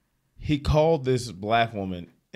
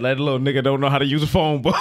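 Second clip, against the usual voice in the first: louder, fast mocking jab; mocking prankster; 3 semitones higher, 6 dB louder, faster than usual. Prankster mocking caller's kid, loud fast jeer. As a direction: jeer loudly and quickly at the kid. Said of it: "He goes".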